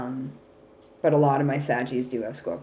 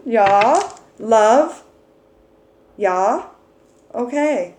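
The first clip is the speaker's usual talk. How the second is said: high, loud Russian-tinged words; Russian accent; 5 semitones higher, 7 dB louder, much slower than usual. Real, not acted. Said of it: "Why am I Russian now?".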